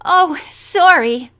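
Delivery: drawn-out embarrassed sorry; apologetic. A narrator's reading. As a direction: apologize sheepishly to a whole room. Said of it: "apologized to the room in general".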